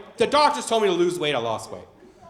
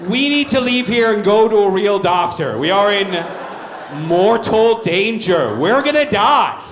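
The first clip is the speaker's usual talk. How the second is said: mock panic; 4 dB louder than usual. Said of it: "I was like".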